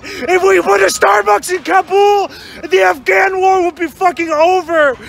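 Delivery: hammed-up sobbing yell; crying shout. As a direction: wail it like a crusader. Crying shout about war.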